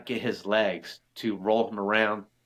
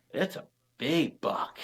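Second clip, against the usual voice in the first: imitating awed daughter; 5 semitones higher, 4 dB quieter, slower than usual.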